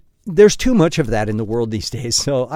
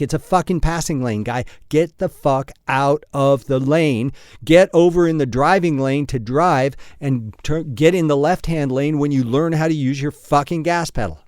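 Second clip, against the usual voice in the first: mock road rage. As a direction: vent at the guy hogging the lane. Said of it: "that's an example of what I would say".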